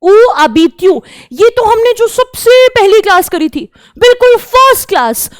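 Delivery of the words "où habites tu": Où habites-tu said clearly for students; French demo. Shown as a demonstration. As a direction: repeat Où habites-tu as a model. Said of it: "teaching French phrase".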